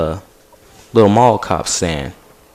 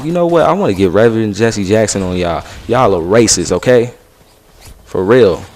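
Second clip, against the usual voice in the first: retold accusation; 4 dB louder than usual. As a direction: call them out, fed up and loud. Teen accusing guards of racism.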